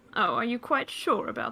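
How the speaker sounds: smug, smiling delivery. Voicing a character offering to mend a torn jacket: smug, smiling delivery. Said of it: "still smiling smugly".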